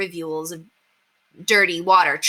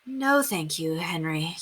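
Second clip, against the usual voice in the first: dry smile; 5 dB quieter, slower than usual. Acted. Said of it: "managed to smile".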